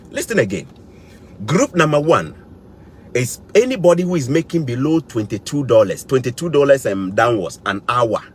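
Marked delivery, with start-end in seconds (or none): 6.0-7.6 "downwards" said with deliberate emphasis; stressed word. Real, not acted. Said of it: "I'm stressing the word".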